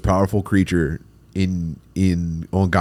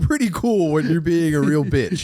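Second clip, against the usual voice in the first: snarky comeback; 8 semitones higher, slower than usual. Pretend. Imagined snarky comeback to partner.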